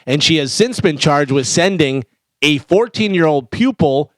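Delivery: deliberate news-item read with punched key words. Real, not acted. Host reading a crime story to co-hosts, newsreader style.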